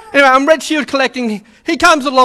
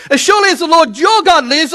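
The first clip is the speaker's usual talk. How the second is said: "your" rising, higher and sceptical; disillusioned widow, edged "your"; bitter doubt; 6 semitones higher than usual. Shown as a demonstration. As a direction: say it as someone who no longer believes. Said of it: "I used to believe in God".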